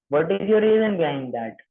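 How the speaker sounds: very slow, word by word; slow dictation. Shown as a demonstration. Trainer dictates the script for trainees, very slow. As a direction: spell it out slowly for note-taking. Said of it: "ये सारी चीजें लिखने के लिए".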